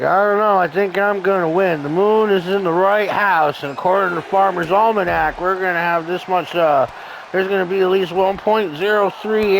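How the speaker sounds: lightly put-on hillbilly accent; folksy rambling hillbilly accent. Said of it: "I made Jared sound like a hillbilly Rain Man".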